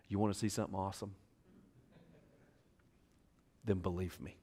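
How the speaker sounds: a hint of a quick, soft challenge; Tim McCall fashion. Preacher imitates Tim McCall daring the crowd, lightly. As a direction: toss it off lightly, barely voiced. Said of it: "In very much Tim McCall fashion".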